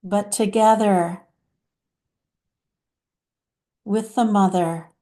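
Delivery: lightly voiced channeled mother, deliberate and pausing; hint of a solemn mother, phrase by phrase; Divine Mother. Mother addressing her dear children about turmoil, lightly voiced divine guide. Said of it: "let's hear what Divine Mother has to say".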